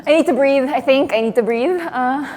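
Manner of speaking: real panic, a bit loud; flustered panic. Real, not acted. Performer under watch needing to breathe, flustered. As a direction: talk yourself through needing air. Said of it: "I am panicking".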